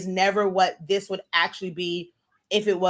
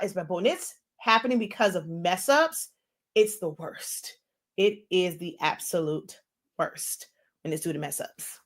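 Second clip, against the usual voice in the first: talking while chewing gum; words round a wad of gum; 5 dB quieter than usual. Real, not acted. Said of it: "talking with this gum in my mouth".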